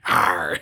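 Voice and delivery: low drawn-out pirate arr; pirate growl. Pretend. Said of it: "sound like a pirate".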